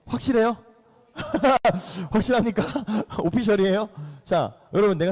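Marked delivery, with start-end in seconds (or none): 1.2-2.1 high burst of laughter. Real, not acted. Laughs at a child's answer. 2.7-3.2 brief soft chuckle; small amused laugh between questions. Real, not acted. Laughs while questioning again.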